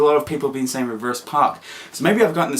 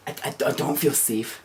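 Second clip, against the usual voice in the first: quiet nervous admission; 7 dB quieter than usual. Retold or imitated. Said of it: "I'm like".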